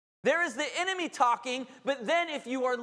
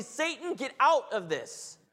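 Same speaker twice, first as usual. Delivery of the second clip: commanding Satan; 4 semitones higher, slower than usual. Pretend. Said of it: "you have the authority to say".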